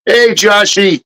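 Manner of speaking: put-on high sing-song greeting to a toddler; baby talk. Father greeting his little son on the stream, high baby-talk voice. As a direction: coo his name up high like to a little kid.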